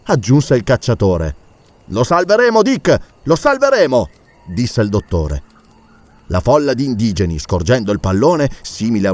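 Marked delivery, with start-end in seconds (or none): 1.9-4.1 higher, eager vow; determined doctor. Acted. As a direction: promise the rescue, fired up. Doctor vows to rescue. (il dottore promette a Dick di salvarlo, acceso)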